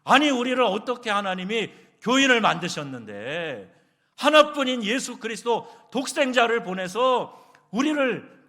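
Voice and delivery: loud, high indignant outburst; shouted scolding. Retold or imitated. Pastor wanting to rebuke diners he overheard, shouted scolding. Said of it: "막 큰 소리로 막 야단을 치고".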